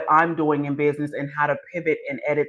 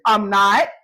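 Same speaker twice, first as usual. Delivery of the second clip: laughing reply; 4 dB louder than usual. Retold or imitated. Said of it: "You was like".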